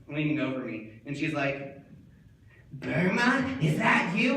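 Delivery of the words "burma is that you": higher, louder questioning voice; puzzled teacher. Acted. Teacher leaning over mauled student, puzzled calling. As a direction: call down in rising puzzlement.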